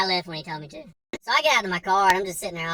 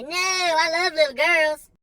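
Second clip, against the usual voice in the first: put-on slow, high and gentle like a kids' TV host; Mister Rogers tone; 8 semitones higher, 3 dB louder, slower than usual. Squatting down to reassure the mom, slow gentle kids' host voice. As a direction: coo it like a friendly children's show host. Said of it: "I said it in more of a Mister Rogers tone".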